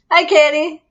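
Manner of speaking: bright greeting. Real, not acted. Greeting viewer by name.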